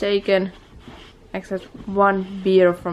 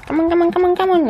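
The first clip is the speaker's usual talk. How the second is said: calling the dog; 10 semitones higher, 5 dB louder, much faster than usual. Real, not acted.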